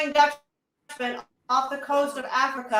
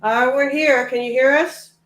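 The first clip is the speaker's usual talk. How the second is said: calling out; 3 semitones lower, 7 dB louder, faster than usual. Real, not acted. Calling out over bad connection.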